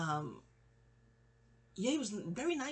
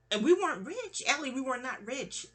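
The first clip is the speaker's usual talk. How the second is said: higher, louder insistence; emphatic; 5 semitones higher, 3 dB louder than usual. Real, not acted. To cousin Allie, loud insistent correction. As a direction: drive the point home.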